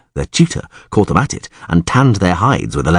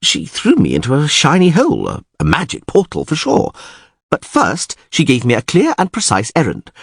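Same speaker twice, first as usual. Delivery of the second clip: lively, higher-pitched raconteur with swooping intonation; bard recounting his ordeal; 5 semitones higher than usual. Acted. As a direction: tell it as an indignant, theatrical tale.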